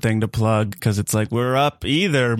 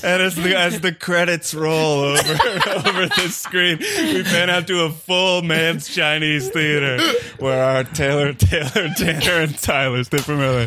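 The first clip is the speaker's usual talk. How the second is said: laughing narration; 4 semitones higher than usual. Acted. Mock film ending narration.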